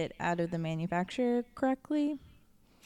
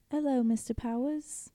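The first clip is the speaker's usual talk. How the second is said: slow, higher fembot greeting; 4 semitones higher than usual. Acted. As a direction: draw out a high robot-seductress hello. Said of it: "let's do these fembot lines".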